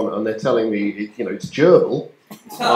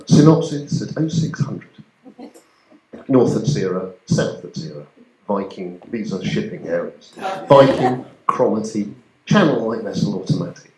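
mock shipping forecast; 3 semitones lower, 4 dB quieter than usual. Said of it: "in my head again".

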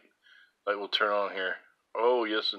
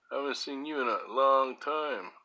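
character voice; 5 semitones higher, 5 dB louder than usual. Pretend. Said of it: "That's a character".

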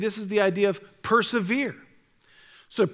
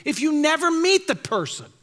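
retold challenge; 3 semitones higher than usual. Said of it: "And I said".

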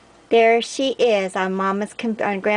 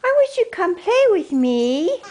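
voicing the dog; 9 semitones higher than usual. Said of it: "Marley's like".

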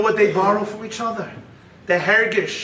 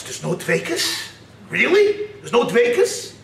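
incredulous questioning; 4 semitones higher than usual. Acted. Brother challenges the claim.

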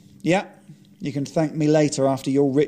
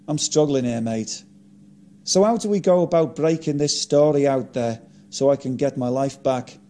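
quivering voice. Acted. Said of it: "tears starting to well up and a quivering voice".

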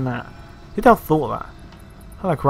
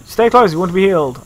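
mock healer; 5 semitones higher, 4 dB louder than usual. Mocking the useless priest.

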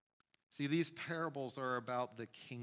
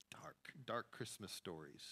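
whisper; 2 semitones lower, 8 dB quieter than usual. Real, not acted. Whispered aside after joke.

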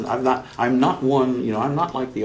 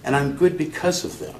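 higher, playful self-praise without humility; mock immodesty; 7 semitones higher than usual. Real, not acted. Practitioner crediting mentors, mock immodesty. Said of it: "he said with, without any humility".

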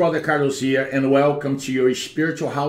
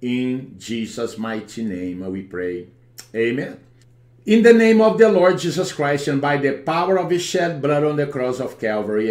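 praying. Acted. Deliverance prayer over the home.

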